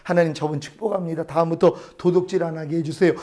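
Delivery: low, softened retold prayer; calm forgiving resolve. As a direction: talk yourself down, then quietly bless. Retold forgiving prayer replacing anger.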